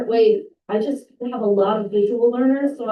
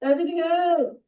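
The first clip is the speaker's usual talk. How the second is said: spooky voice; 7 semitones higher than usual. Pretend. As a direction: moan it like a ghost. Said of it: "say everything else in a spooky voice".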